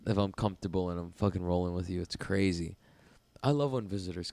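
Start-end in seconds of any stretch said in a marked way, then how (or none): 0.1-2.0 mocking excuse. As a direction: ham up the lame excuse. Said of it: "It's like".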